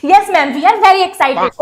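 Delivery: slow drawn-out class chorus; sing-song chorus reply. Acted. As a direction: drag it out like bored students.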